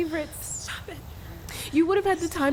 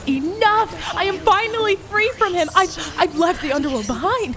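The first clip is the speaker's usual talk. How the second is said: higher and louder, insisting; defiant cry; 4 semitones higher, 5 dB louder than usual. Acted. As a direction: declare it, pushing back. Defying the ghosts.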